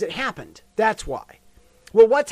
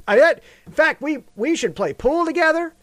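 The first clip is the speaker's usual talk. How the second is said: Trump impression. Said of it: "to hear Trump talk about their friendship".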